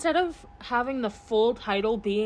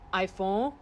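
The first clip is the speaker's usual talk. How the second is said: mock Siri accent. Shown as a demonstration. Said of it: "but as an example".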